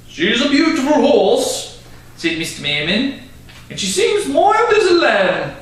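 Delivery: a lightly voiced calm stern father; measured, fatherly and firm; father's voice. Father telling his daughter to return the horse, gently firm.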